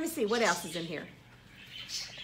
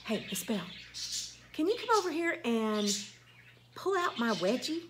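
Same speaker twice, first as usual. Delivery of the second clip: softer, matter-of-fact asking; casual request; 2 semitones lower, 6 dB quieter than usual. Retold or imitated. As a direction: quote the girl asking offhand. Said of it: "she said".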